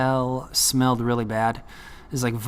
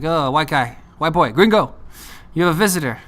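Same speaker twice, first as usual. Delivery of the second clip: louder, higher guard calling out; 4 semitones higher, 5 dB louder than usual. Retold or imitated. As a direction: call through the cell bars. Guard calls him out.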